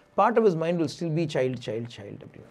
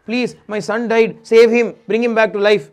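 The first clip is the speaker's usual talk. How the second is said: desperate plea; 5 semitones higher, 10 dB louder than usual. Retold or imitated. King falls at rishis' feet pleading.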